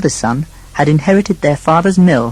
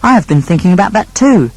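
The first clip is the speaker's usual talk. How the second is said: higher, gentler younger brother voice; meek second brother; 5 semitones higher, 4 dB louder than usual. Acted. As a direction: play the easygoing second son.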